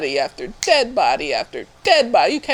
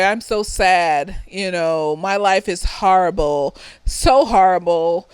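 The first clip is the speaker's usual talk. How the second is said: mock self-pity; slower than usual. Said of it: "Woe is me".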